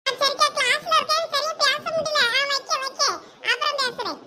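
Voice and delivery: high-pitched, panicky brush-off; flustered excuse to end a call; nervous, flustered. Acted. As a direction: hurry the caller off the phone uneasily. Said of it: "ஒரு மாதிரியா பதட்டமா பேசுற".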